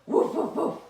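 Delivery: short breathy dog woofs; playful imitation barking; puppy woofs. Shown as a demonstration. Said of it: "what kind of sounds does your puppy make".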